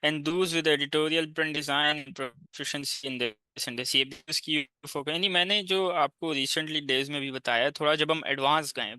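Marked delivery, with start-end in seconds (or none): 0.0-4.0 slow reading aloud. Shown as a demonstration. Reads job post aloud.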